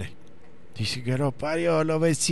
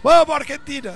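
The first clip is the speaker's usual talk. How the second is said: "¡Vamos, Argentina!" pitched much higher and louder; imitated neighbor's cheer; 10 semitones higher, 3 dB louder than usual. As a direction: echo the late cheer as the neighbor. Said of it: "Y él a los dos minutos".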